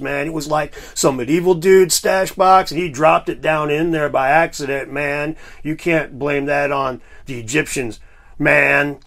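lightly voiced laid-back stoner hippie; a hint of a chill hippie, man; hippie impression. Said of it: "you don't like my hippie impression?".

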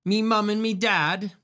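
hammed-up working-class British accent. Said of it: "God save the Queen".

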